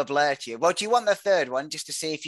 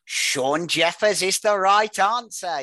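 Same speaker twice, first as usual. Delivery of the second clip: higher, louder and slow, announcing the winner; game-show reveal; 4 semitones higher, 4 dB louder, much slower than usual. Real, not acted. Quizmaster announcing the correct guess to a contestant, slow and louder. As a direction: proclaim the right answer like a quizmaster.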